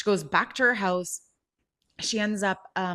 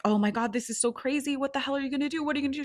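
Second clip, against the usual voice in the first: alarmed friend; 6 semitones higher, faster than usual. Retold or imitated. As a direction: act out a worried friend reacting on a call. Retold friend reacts in alarm.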